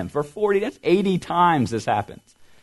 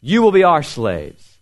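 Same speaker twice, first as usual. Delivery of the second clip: shouted challenge; 2 semitones higher, 4 dB louder than usual. Acted. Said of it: "Goliath came out and shouted".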